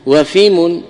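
وفم said wa-fim, i after the f; فم بكسر الفاء; fim with kasra. Shown as a demonstration. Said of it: "بكسر الفاء".

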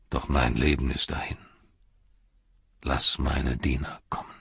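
low, weary lord dismissing his servant; Denethor, cold and bitter. Acted. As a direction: send the boy away with bitter calm.

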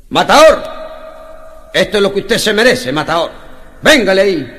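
loud, jeering crowd praise; loud mock crowd cheer. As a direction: cheer him on like a hammy fan.

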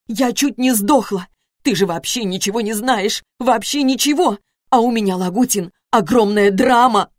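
distraught ex-wife shouting at Lagutin; anguished shout. A narrator's reading. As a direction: cry out her pain, slowing on the drama. Wife shouting before bursting into tears.

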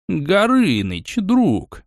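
slow, sweet purring greeting; butter up the dragon like a fawning cat. Acted. The cat fawningly purrs a greeting to the dragon. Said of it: "замурлыкал тот".

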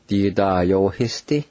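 "Di da yo histi" in even, joined syllables; "Di da yo histi" with held vowels, as one word; careful pronunciation demo. Shown as a demonstration. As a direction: model "Di da yo histi" for learners. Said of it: "I'll pronounce these words one more time".

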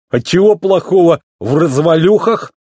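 high-pitched hurt question; a touch offended. A narrator's reading. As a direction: bristle mildly, wounded. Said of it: "послышались нотки обиды".

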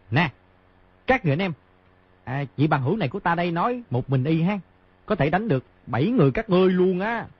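high, cheeky calling out. A narrator's reading. Boy baiting the seven wrestlers, high cheeky call. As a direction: call across the room to provoke them. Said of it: "Di Tiểu Bảo đột nhiên cao giọng nói".

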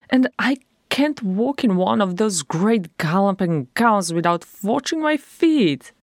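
a hint of a cross dwarf; grumbling dwarf. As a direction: complain about the gown. Bonfries rants to her sister.

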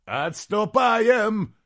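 loud, high, drawn-out shout; shouted order. Acted. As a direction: bellow the retreat order. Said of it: "закричал Бенигарис". (громкий крик)

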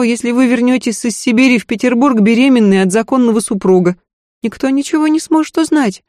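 a scared maid begging her lady to listen; frightened maid. Acted. Maid warns the lady it is too late, pleading.

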